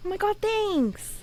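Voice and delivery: high slow gushing voice; flattered character. Acted. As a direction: preen at the compliment.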